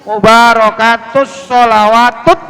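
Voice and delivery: "Mubarakatus sholawatut" with held s and hard final t; tasydid on tha. Shown as a demonstration. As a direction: press the doubled letters in "Mubarakatus sholawatut". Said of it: "Toknya ada tasdid". ("sholawatut" dengan tha bertasydid)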